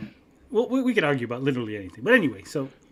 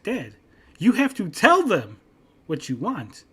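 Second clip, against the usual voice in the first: exasperated explaining; 5 semitones higher, slower than usual. Retold or imitated. Retold argument, explaining to dad.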